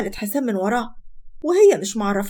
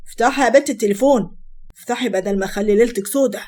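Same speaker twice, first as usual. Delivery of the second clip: firm, louder acted husband's order; angry threat; 4 dB louder than usual. Husband ordering wife to unlock phone, angrily threatening. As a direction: demand it with a touch of menace.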